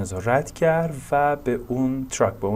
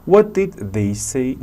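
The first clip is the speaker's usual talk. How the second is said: slow question with "say" emphasized; emphasis on SAY; 5 dB louder, much slower than usual. Shown as a demonstration. Teacher modelling a question, emphasis on "say". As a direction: put the weight on the final "say". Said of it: "Notice how say is emphasized".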